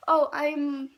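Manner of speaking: nervous stammer, getting stuck; stuttering. Retold or imitated. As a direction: stumble on the words, flustered. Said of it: "I kept, like, stuttering".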